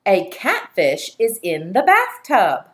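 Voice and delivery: slow, clear dictation voice, every word separate. Shown as a demonstration. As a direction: dictate it slowly for the class. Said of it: "Your first sentence is".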